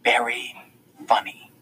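whispered, slow furious hiss; slow angry whisper. A narrator's reading. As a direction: hiss it through anger. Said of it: "furious, she hisses".

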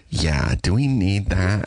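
slow mock note-giver; annoying network executive. Executive questioning a beat in the script, annoyingly slow. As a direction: drag out the pointless question. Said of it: "as annoying as possible because of her job".

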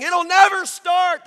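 high, loud, drawn-out jeer; slow, full-voiced yell from the crowd; shouted heckle. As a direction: heckle at the top of your voice. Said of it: "He just stood there heckling the man".

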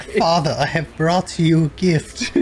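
lightly voiced solemn cat, slightly slow ending; cat's voice. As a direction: play a cat presenting its offering. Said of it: "The cat's like".

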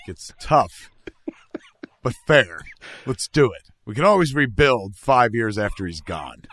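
mock executive. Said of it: "They're like".

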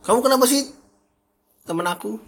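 high mock accusation; complaining partner. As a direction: whine about a friend.

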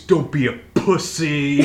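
high, loud shouted chant; shouted lyric. Retold or imitated. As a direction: belt it like a punk chorus.

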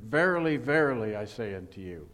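booming King James verily; solemn proclaiming. Acted. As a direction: proclaim it like old scripture. Reading King James wording aloud.

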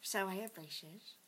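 put-on drunk uncle voice. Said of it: "I am braces".

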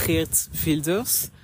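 "Geert Wilders" said slowly with an approximate Dutch accent; slow it down on "Geert Wilders" and try the Dutch sounds; Dutch pronunciation. Shown as a demonstration. Vlogger naming the party's founder, careful slow Dutch pronunciation. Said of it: "Vous excuserez encore une fois, euh, mon accent".

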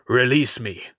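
loud stern command; sternest voice. Acted. Chained priest commands his brother to release him, stern and loud. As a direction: order it with full authority. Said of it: "commanded in his sternest voice".

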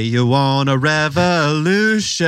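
put-on slow, drawn-out "revolution" in a light Philly accent; mock his Philly accent, slowly; imitating his accent. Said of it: "you say".

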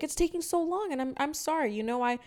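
put-on high, fumbling old woman apology; lightly voiced neighbor, flustered; mock flustered old lady. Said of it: "and she's like".

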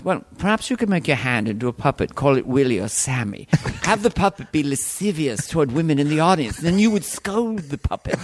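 scheming courtier. Acted. Courtier advising a ventriloquist.

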